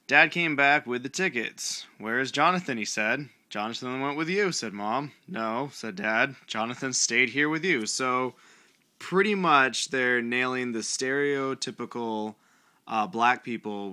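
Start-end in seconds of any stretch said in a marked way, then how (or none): 0.1-7.9 louder, lifted reading voice; storybook read-aloud. Acted. Reader reads a child's book to viewers, projected storybook voice. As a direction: read it out to an audience.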